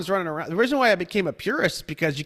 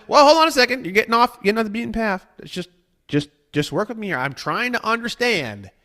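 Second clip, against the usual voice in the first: higher and louder, pressing them back on track; insistent interruption; 6 semitones higher, 4 dB louder, faster than usual. Retold or imitated. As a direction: cut in firmly but patiently. Himself reining the client in.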